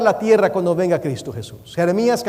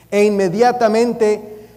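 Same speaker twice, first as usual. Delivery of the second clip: slow, measured "inmediatamente", setting up the key word; deliberate correct reading; slower than usual. Shown as a demonstration. Preacher leading the congregation through the true verse, slow and deliberate "inmediatamente". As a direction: spell out "inmediatamente" slowly for the crowd. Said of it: "dígalo conmigo".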